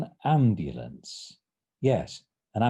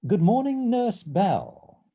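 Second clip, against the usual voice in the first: high, louder hail to a colleague; breezy greeting; 10 semitones higher, 6 dB louder, slower than usual. Acted. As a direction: greet the nurse breezily, sure of yourself. Doctor greeting nurse in story.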